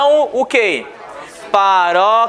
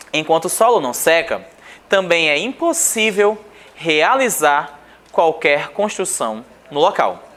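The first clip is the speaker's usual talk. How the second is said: measured, lower-pitched read of a text; reading aloud; 6 semitones lower than usual. Acted. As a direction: read the passage out evenly, pitch dropped. Reads the passage aloud.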